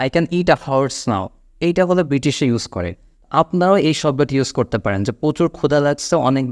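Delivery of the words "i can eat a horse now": slow, spaced words; carefully paced example line; slow model sentence. Shown as a demonstration. Teacher giving the short idiom, slow and clear. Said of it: "বা".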